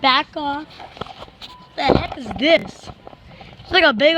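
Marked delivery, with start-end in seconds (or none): 0.0-0.7 firm. Real, not acted. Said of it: "I said".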